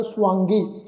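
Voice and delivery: ਸੁਆਂਗੀ as su-aan-gi; half-vava reading. Shown as a demonstration. Teacher explaining the half letter, ਸੁਆਂਗੀ said as swaan-gi. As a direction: say ਸੁਆਂਗੀ with a w glide after s. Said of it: "ਅੱਧਾ ਵਾਵਾ ਲੱਗਾ ਹੋਇਆ".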